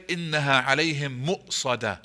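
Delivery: إِنَّهَا عَلَيْهِمْ مُؤْصَدَةٌ with a glottal stop in مُؤْصَدَةٌ; with the hamza. Shown as a demonstration. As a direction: recite مُؤْصَدَةٌ with a clear hamza catch. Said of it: "We put a hamza".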